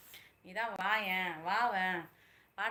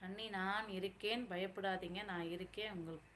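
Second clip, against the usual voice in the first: soft reassurance; 7 dB quieter than usual. Real, not acted. Telling sister-in-law not to fear, softly reassuring. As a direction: gently tell them not to worry.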